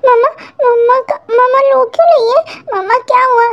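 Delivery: put-on childlike Kookie. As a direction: sound like a small child seeing mama cry.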